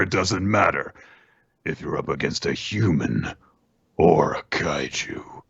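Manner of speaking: a slow, low, eager monster voice, lightly voiced; a hint of a thrill-hungry monster, slow and intent; kaiju voice. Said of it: "number ten doesn't believe this and says".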